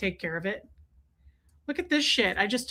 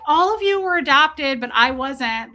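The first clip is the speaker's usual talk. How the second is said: haughty cat voice; 2 semitones higher, 5 dB louder than usual. Pretend. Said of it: "she's like".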